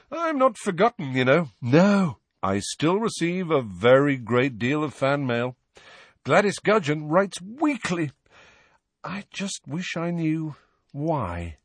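high-pitched, boastful former celebrity; vain Lockhart. A narrator's reading. Lockhart boasting about his fan mail, self-satisfied.

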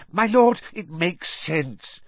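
high, squeaky relieved servant; a cringing servant breathing out in relief; whiny, relieved Wormtail voice. Acted. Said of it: "sounding thoroughly relieved now".

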